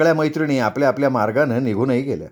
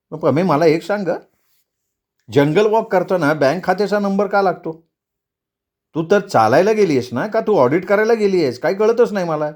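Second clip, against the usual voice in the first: questioning voice, rising higher as it goes; puzzled husband; 4 semitones higher than usual. Acted. Husband questions wife about needing bank numbers, baffled. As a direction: press her, baffled.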